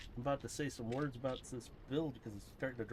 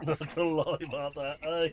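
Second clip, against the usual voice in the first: louder, higher mock Australian echo; Australian accent attempt; 5 semitones higher, 8 dB louder than usual. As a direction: mimic it in a put-on Australian accent. Echoes the line in Australian attempt.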